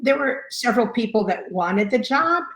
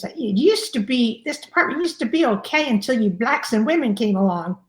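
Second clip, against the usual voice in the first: mimicking the chief's condescending remark at the meeting, lightly done; imitating the Italian chief; 2 semitones higher than usual. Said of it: "and I'm gonna imitate it".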